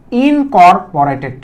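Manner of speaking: ইনকর্পোরেটেড said slowly, syllable by syllable; slow new word. Shown as a demonstration. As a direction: spell out ইনকর্পোরেটেড slowly for students. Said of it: "নতুন একটা শব্দ দিচ্ছি, খেয়াল করে দেখো". (ইনকর্পোরেটেড ধীরে ধীরে, প্রতিটি অক্ষর আলাদা করে)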